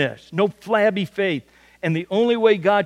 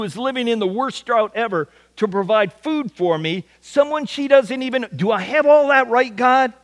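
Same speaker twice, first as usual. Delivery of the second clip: a prophet arguing with God, muttering then rising; Elijah muttering. Retold or imitated. Preacher voicing Elijah questioning God, incredulous. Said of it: "I can hear him muttering to himself".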